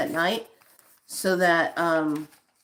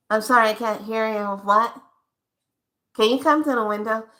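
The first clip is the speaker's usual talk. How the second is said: fast, louder worker who still can't hear; drive-thru worker; 3 dB louder, faster than usual. Acted. Worker asking the customer to come to the window, quickly. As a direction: rush it like a harried worker. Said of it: "Perfect example".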